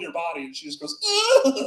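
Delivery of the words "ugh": drawn-out mock groan of revulsion; disgusted groan. Acts a girl revolted by touch.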